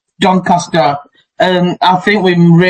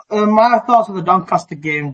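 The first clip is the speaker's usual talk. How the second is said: muffled, distant headphone mic; faint tinny headset audio; headphones used as mic; 4 dB quieter than usual. Real, not acted. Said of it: "I'm talking through my headphones now".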